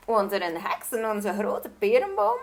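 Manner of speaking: a touch of alarm in the king's question; lightly startled disbelief; king hears a witch lives in their tree, mildly startled. Acted. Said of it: "zei de koning verschrikt".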